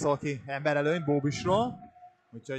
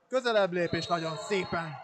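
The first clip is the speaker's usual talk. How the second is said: higher and louder, rising tension; excited; 3 semitones higher, 4 dB louder than usual. Real, not acted. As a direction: push it up as the shot comes. Live play-by-play build-up.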